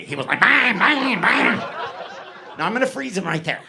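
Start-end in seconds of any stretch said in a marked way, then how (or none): 0.4-1.6 high imitated kicking noises; kicky little man. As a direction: act out a small man's furious little kicks. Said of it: "then he got kicky".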